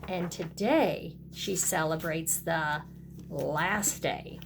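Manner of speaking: lively picture-book read-aloud with a sing-song refrain; storybook voice for little kids; reading to children. A narrator's reading. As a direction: read it like storytime for a kindergarten class. Teacher reads picture book to class.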